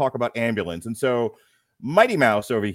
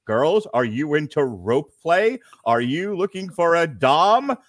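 mock seductive pitch; 4 semitones higher, 5 dB louder, slower than usual. Joke pitch to listeners.

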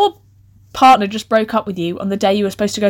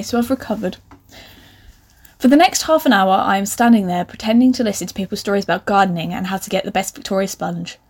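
usual speaking voice

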